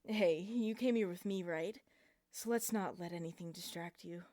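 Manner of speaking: loud cold command. A narrator's reading. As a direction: bark it coldly and possessively. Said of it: "I said coldly".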